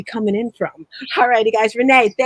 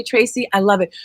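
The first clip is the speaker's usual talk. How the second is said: normal talking voice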